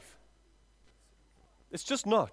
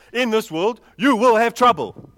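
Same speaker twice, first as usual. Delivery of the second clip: emphatic scripture quote; 4 semitones higher, 11 dB louder, slower than usual. Acted. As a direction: build to a loud, slow proclamation. Declares scripture forcefully to congregation.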